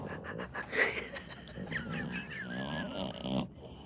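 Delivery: long shuddering mock sob; hammed-up crying noise; fake sobbing. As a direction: blubber wordlessly, trailing off. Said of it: "crying like that".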